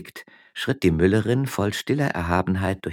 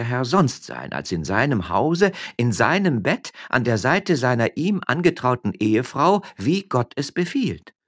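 high, louder righteous scorn; mock indignation; 8 semitones higher, 5 dB louder than usual. Wife lecturing her husband on decency, scornful. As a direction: preach propriety at him.

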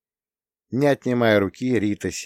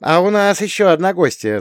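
laughing announcement; 11 semitones higher, 6 dB louder than usual. A narrator's reading. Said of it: "засмеялась Рита".

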